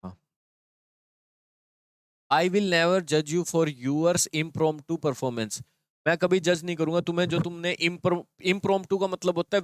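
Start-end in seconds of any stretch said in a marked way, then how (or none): 2.3-5.6 slow reading aloud. Shown as a demonstration. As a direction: read the faulty sentence very slowly. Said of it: "ये word ही गलत है".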